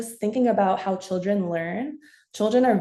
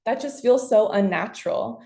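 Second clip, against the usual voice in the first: moaning; 3 semitones higher than usual. Retold or imitated. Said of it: "like, moaning".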